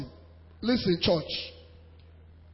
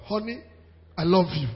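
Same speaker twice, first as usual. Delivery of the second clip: tender endearment; 2 semitones lower than usual. Acted. Models husband's morning words to wife.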